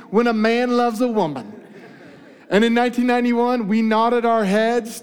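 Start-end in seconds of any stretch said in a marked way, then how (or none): 0.1-1.5 sexy voice. Pretend. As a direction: purr it like a love song. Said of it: "Put on your sexy voice".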